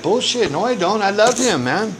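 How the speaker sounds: mock-defensive "no way, I love him"; indignant denial. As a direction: scoff it off as if the very idea is absurd. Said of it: "I would be like".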